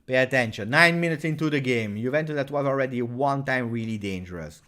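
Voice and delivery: usual speaking voice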